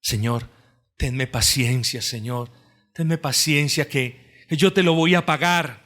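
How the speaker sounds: quiet pleading. Retold or imitated. The listener himself asks the Lord, mildly pleading. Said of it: "anhela ser perdonado".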